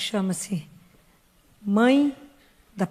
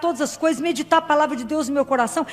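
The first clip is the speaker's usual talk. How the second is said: heartfelt prayer; 4 semitones higher than usual. Acted. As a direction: pray it like a child asking its mother. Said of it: "Peça a ela".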